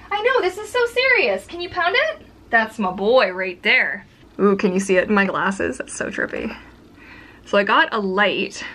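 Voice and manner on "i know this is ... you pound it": much higher sing-song pet voice. Real, not acted. Owner asking her dog for a fist bump, high baby talk. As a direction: coo at the puppy playfully.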